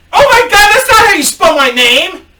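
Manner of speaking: very high, loud mock screech; hammed-up, high-pitched outraged yell; outraged customer. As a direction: shriek it like an offended customer. Outraged customer yells at bellman.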